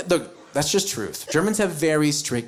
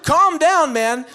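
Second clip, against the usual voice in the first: higher, louder startled whoas; alarmed whoa; 8 semitones higher, 6 dB louder, slower than usual. Pretend. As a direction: react like a shocked German bystander. Shocked Germans reacting to ad.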